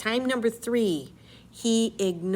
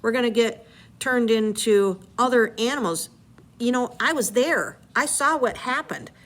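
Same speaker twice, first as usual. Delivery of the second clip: imitating Eurylochus; 3 semitones higher, 3 dB louder than usual. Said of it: "Eurylochus is like".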